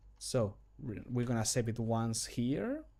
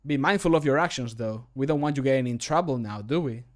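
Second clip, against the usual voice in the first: less hurried; 3 dB louder than usual. Shown as a demonstration. Re-recorded warning about someone's actions, a bit more measured. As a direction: give the warning a little more time. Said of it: "I believe I said it too fast".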